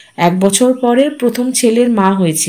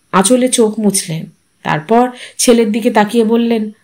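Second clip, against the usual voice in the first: ordinary delivery, nothing marked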